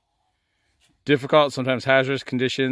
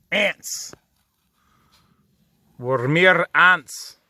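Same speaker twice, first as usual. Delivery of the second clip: awed slow words; 4 semitones higher, 3 dB louder, much slower than usual. Real, not acted. Awed at tiny people below.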